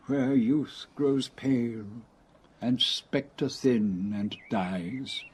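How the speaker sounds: slow, low, measured verse; poem recitation. Acted. Old man recalling lines of an ode, slow low recitation. Quoting a Keats ode from memory.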